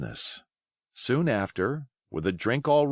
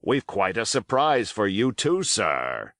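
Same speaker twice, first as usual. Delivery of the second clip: put-on hearty old pirate. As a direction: chatter on cheerfully, playing the host. Silver's voice held.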